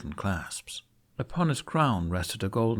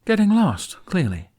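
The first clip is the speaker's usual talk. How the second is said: sarcastic quip; 9 semitones higher, 8 dB louder than usual. A narrator's reading. Jack sarcastic to the knight.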